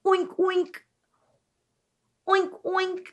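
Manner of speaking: soft playful pig oinks; oinking like a pig. Shown as a demonstration. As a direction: oink gently like a pig for kids. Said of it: "Can you oink like a pig?".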